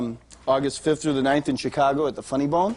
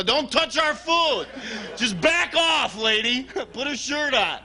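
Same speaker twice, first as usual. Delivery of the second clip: put-on kid voice; 7 semitones higher, slower than usual. Kid snapping at lunch lady.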